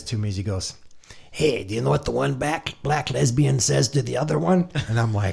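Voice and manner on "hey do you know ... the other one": lightly voiced joke-teller, pitched up; imitating an eager joker; retold joke setup. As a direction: pitch it up like someone springing a joke. Retelling musician's joke to him.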